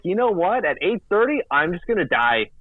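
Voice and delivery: lightly hammed-up quitting voice; mock dramatic announcement. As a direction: act out a melodramatic giving up. Voicing the internet's dramatic announcement.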